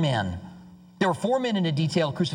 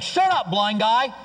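high, slow mock jeer; drawn-out, scornful put-down; mean crowd; 5 semitones higher, 4 dB louder, slower than usual. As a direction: imitate a heckler silencing someone. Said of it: "They're, like, mean to the blind guy".

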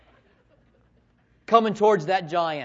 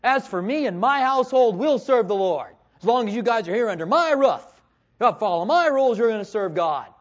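higher, firm fatherly edict; stern household father; 4 semitones higher, 4 dB louder than usual. Acted. Father to his children under his roof, stern. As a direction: lay down the rules as a father. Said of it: "as the father in your home have said to your children".

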